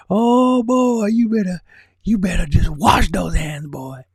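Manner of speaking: croaky little Yoda, creepy and weird. Pretend. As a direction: read the message as a creepy Yoda. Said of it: "read it in creepy, weird Yoda voice".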